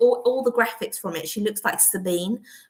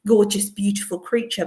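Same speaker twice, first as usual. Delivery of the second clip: ordinary talk, nothing marked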